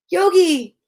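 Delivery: sing-out summons to a pet; calling out. Real, not acted. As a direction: call the pet over by name. Calling the absent dog to come.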